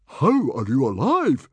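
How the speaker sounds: high, loud, baffled cry; astonished bellow. A narrator's reading. Stoic finds Hiccup alive, astonished bellow. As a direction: bellow it in amazement. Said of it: "bellowed Stoic the Vast in astonished delight".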